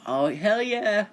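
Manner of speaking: loud, high, drawn-out whoop; excited cheer. Acted. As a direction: cheer it big, stretching the words out. Voices Naruto thrilled at new mission.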